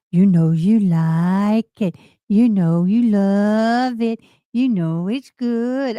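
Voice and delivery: drawn-out, teasing "you know you like it"; slow teasing movie quote. Retold or imitated. Quoting a Sandra Bullock movie line to viewers, slow and teasing. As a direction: lean into each word, slow and coaxing. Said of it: "That's how she said it".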